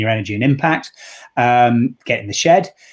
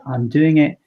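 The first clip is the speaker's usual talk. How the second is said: emotional; much slower than usual. Retold or imitated. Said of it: "and I was emotional".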